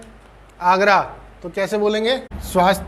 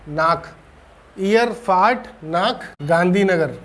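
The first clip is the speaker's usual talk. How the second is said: slow model sentence. Shown as a demonstration. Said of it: "तो हम कैसे बोलेंगे".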